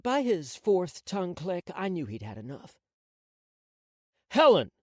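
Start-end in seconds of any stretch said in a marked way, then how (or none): 4.3-4.7 louder, higher call of her name. Acted. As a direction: call her name sharply to break the silence. He snaps her out of silence.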